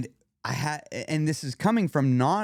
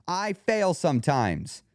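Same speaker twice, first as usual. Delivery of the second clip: slow, less harsh admission; 4 semitones higher, slower than usual. Shown as a demonstration. Demonstrating again for listeners, less harsh admission. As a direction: stretch it out, leaving wiggle room. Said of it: "one of them sounds harsher than the other".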